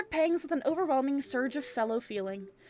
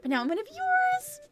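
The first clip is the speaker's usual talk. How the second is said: troll voice. Acted. Reader voicing troll's message.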